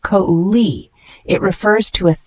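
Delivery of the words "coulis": kouli said slowly, KOO-lee with silent s; careful pronunciation. Shown as a demonstration. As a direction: spell out kouli syllable by syllable. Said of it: "pronounced kouli".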